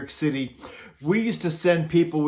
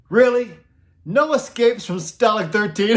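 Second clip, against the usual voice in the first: higher, louder teasing question; mock innocent; 5 semitones higher, 4 dB louder than usual. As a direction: needle him with fake innocence. The speaker teasing Klink actor.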